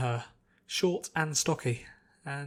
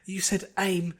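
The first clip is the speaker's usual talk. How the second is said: higher, sheepish apology to the instructor; apologetic trainee voice; 6 semitones higher than usual. Acted. Trainee apologizing to the instructor, sheepish and high. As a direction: say sorry like you botched the drill. Character apologizes after gun mishap.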